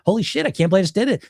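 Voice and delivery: fast, excited disbelief; surprised delight. Retold or imitated. Dieter amazed at her own healthy choice, fast and excited. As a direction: blurt it out, thrilled you pulled it off.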